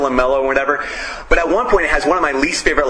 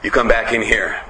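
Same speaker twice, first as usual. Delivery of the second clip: menacing cook; 6 semitones lower than usual. Retold or imitated. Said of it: "the guy's like".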